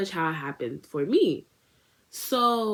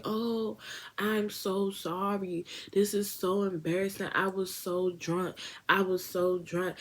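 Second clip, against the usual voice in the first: sheepish apology; 2 semitones higher, 5 dB quieter, slower than usual. Retold or imitated. Embarrassed friend apologises.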